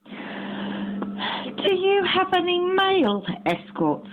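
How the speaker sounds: slow, cracking up through the words; cheeky laughing question. Real, not acted.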